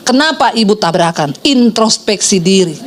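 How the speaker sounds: low, slow mock reproach; imitated snide busybody. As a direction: mimic a judgmental churchgoer, dragging the words out. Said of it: "orang-orang Kristen julid".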